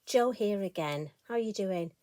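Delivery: slightly croaky, hoarse throat. Real, not acted. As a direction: talk through a croaky throat. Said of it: "I've got a bit of a croaky voice".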